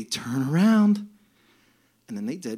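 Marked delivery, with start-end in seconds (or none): 0.0-1.1 slow, drawn-out cheery instruction; joyful angel. Retold or imitated. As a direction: stretch it sweetly like a happy ride attendant. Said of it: "and it was joyful".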